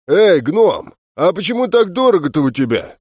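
coarse, husky voice of a brute; rough husky voice. Acted. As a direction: rasp it out like a rough mercenary. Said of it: "Грубый сиплый голос".

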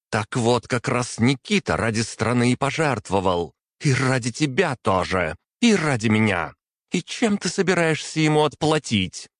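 выше и громче, с нарастанием; бросить упрёк в лицо; гневный упрёк. A narrator's reading. Принцесса упрекает отца. (дочь в гневе упрекает отца, голос всё выше)

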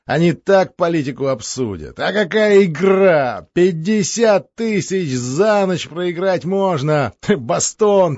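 lively, boastful count voice; a hint of a boastful count. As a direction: brag like a merry Moscow count. Alexei's boastful character voice.

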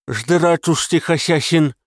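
talking through a mouthful; mumbled with a full mouth. A narrator's reading. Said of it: "С набитым ртом говорить ей было трудновато".

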